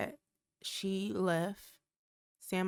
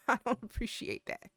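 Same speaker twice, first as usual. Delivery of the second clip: said through a laugh; amused mock complaint; 3 semitones higher than usual. Real, not acted. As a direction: laugh while protesting. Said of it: "why are they talking regular now".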